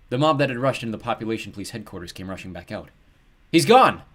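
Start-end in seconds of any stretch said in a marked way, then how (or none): 3.5-4.0 loud, high yell. A narrator's reading. Men rushing back out of headquarters, yelling. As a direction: cry out the news to everyone. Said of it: "the men were yelling".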